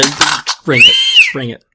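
a hint of Brooklyn, loud challenge; mock Brooklyn tough guy. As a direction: dare them, Brooklyn style. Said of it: "leaning over into Brooklyn".

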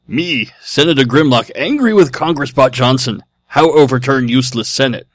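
lightly voiced caveman robot, choppy; a hint of a dumb robot; Neanderthal robot voice. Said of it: "in your best Neanderthal robot voice".

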